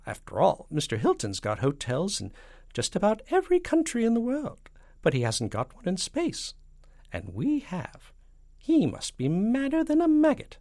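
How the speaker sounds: loud, high-pitched rant from the president. Acted. President railing about Mister Hilton's hotels, ranting. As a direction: build to a high, incredulous outburst.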